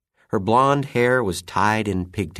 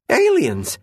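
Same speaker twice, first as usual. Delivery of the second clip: awed exclamation; 5 dB louder than usual. Acted. Kids spot aliens in yard.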